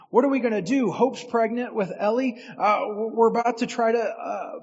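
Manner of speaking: panicked thoughts. Retold or imitated. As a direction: spill the retold panic out fast. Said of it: "I was panicking".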